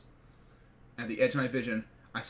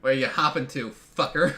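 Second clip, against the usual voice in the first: delinquent taunt; 6 dB louder than usual. Acted. Bully blocks his way in forest.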